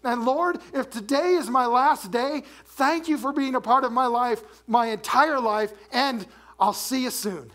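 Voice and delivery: heartfelt prayer. Pretend. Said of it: "That's probably what his prayer was like".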